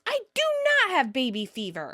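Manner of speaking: high start, emphatic denial; mock shout. Monica denying baby fever to Chandler, mock shouting. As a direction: protest high, then come down on not. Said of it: "Monica shouts".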